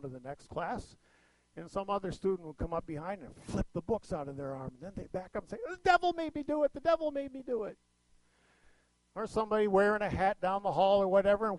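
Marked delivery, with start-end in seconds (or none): 5.7-7.8 high-pitched comic mimicry; mock catchphrase voice. Students mimic the comedian's catchphrase.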